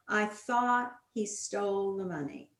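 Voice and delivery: "thought" stressed, falling tune. Shown as a demonstration. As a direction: lean on the word "thought". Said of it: "give them sentences like".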